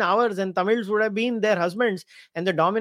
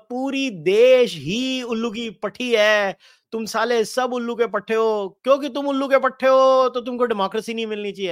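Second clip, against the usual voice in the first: mocking paraphrase; 3 semitones higher, 3 dB louder, much faster than usual.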